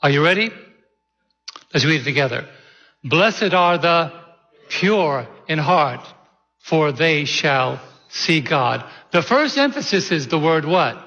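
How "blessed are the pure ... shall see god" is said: slow reading with pure drawn out and leaned on; stress on pure. Shown as a demonstration. Pastor leading the congregation's reading, leaning on pure. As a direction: linger on the word pure, slowly. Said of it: "give some special emphasis to it".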